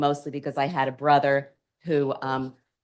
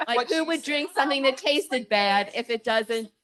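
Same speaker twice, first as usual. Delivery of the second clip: laughing disbelief; 8 semitones higher than usual. Retold or imitated. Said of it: "I said".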